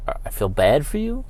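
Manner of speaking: quiet, disbelieving echo with a rising end; incredulous repeat. Real, not acted. Host echoing the ump's words in disbelief, incredulous. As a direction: repeat it like you can't believe he said it. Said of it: "I'm sorry, when I scream".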